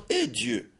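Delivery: high pleading cry to God. Retold or imitated. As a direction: wail up to heaven, pleading. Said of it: "qu'il lève la tête vers Dieu en disant".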